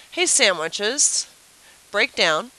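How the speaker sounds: calling bread. Pretend. Bread calls to the sandwiches.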